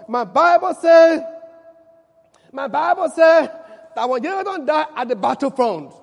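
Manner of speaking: preaching at full force. Acted. Preacher summing up to the church, loud and emphatic. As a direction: drive the point home to the congregation.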